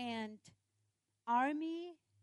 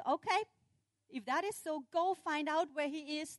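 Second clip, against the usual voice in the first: higher, irritated royal order; beefed king; 5 semitones higher, 5 dB louder than usual. Acted. Angry king ordering men to find the prophet, riled. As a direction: give a riled command. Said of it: "being beefed, he said".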